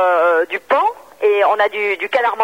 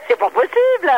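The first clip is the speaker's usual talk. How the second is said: laughing; 9 semitones higher than usual. Real, not acted. Shop lady laughing at the prank.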